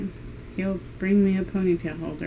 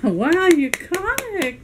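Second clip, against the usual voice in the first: excited praise; 10 semitones higher, 4 dB louder, much slower than usual. Real, not acted. Praising dog's catch.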